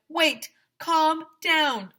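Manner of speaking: high, slow hammed-up bear voice; bear calming class. The bear calms the panicking kids, slow high voice. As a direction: soothe the crowd in a stretched silly voice.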